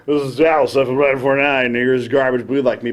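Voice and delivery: lightly put-on DJ patter; radio DJ intro. Shown as a demonstration. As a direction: introduce the song like a radio host. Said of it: "you go".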